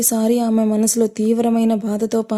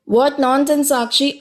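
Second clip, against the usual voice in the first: Tanmay snaps at Sakshi, pitch raised; sharp, raised rebuke; angry shout; 4 semitones higher, much slower than usual. Acted. Friend shouts down Sakshi at the party, angry. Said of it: "అంటూ కోపంగా అరిచింది".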